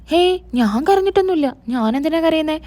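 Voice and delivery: high, dismissive brush-off; protesting denial. Acted. Husband teased about crying over his wife, protesting denial. Teased man denies having cried.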